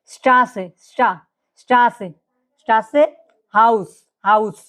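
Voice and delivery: "স্ট্রাসে" and "হাউস" modelled slowly; slow teacher's model, light hissing S ending "হাউস"; German S demo. Shown as a demonstration. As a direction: draw out the S sounds in "স্ট্রাসে" and "হাউস". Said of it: "হালকা চর মতো উচ্চারণ হবে".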